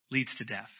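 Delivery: leads lifted and falling onto death; stress on leads. Shown as a demonstration. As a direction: lean on leads, then drop. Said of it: "So letting your sinful nature".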